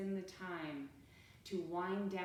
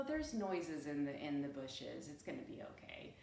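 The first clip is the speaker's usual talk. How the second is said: dismissive ancestor; 5 semitones lower, 3 dB quieter than usual. Retold or imitated. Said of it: "it's the ones that are like".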